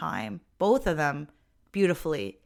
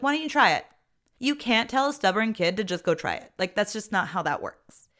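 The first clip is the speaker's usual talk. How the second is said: mocking retort; 3 semitones higher than usual. Mother mocking the principal's plan with scorn. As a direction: scoff at the principal's advice.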